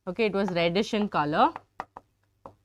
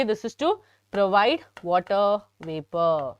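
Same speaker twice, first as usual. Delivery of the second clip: slower, every word spaced out for notes; slow dictation. Shown as a demonstration. Teacher repeating slowly for students taking notes. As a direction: spell it out slowly so they can write.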